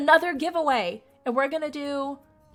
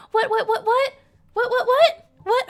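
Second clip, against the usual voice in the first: shrill, loud disbelieving whats rising higher; can't believe what she's seeing; stunned what; 11 semitones higher, 8 dB louder than usual. Real, not acted. Streamer spotting a huge donation, shrill loud disbelief.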